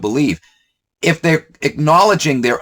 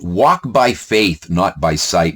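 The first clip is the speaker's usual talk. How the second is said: slow quoted scripture; 5 semitones lower, slower than usual. Retold or imitated.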